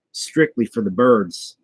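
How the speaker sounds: Donald Duck impression. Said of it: "That's my Donald Duck impression".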